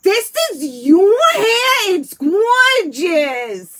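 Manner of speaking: high, loud, slow gushing praise; gushing cousin's husband. Retold or imitated. Cousin's husband marvelling at her hair, high loud gush. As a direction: gush over the hair like it's a miracle. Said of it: "He goes".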